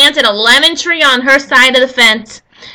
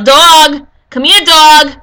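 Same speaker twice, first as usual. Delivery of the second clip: loud call across the dog park; calling yell; 3 semitones higher, 6 dB louder, slower than usual. Retold or imitated. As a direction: yell for the dog, not too hard. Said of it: "And I would yell".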